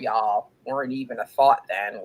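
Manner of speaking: whispered aside. Real, not acted. Host teasing younger listeners, whispered aside.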